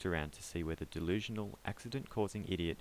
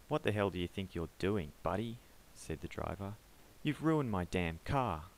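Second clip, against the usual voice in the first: angry driver; 2 semitones higher, 3 dB louder than usual. Acted. Angry driver confronts pedestrian.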